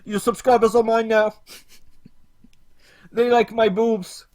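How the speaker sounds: high, loud mocking put-on woman's voice; hammed-up parody of a preachy feminist YouTuber; parody Lacey Green. Streamer mocks Lacey Green to chat, high mocking voice. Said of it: "For I am Lacey".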